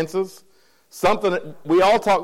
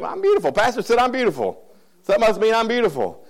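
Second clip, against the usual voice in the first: high-pitched preening, then settling back; puffed-up self-flattery; 5 semitones higher than usual. Retold or imitated. Pastor mimics a flattered churchgoer, puffed up and preening. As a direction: play the flattered listener who believes the compliment. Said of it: "you might puff up and think".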